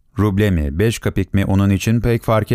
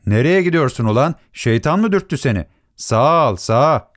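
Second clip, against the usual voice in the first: lightly voiced angry street yell, higher in pitch; angry scolding; 5 semitones higher than usual. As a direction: scold a careless driver, pitched up. Drivers shout abuse at sledge driver. (öfkeli azarlama, hafif tiz sesle)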